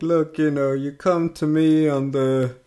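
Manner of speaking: lightly voiced mob boss; hint of a mafia don; Godfather impression. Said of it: "is it like the Godfather kind of thing".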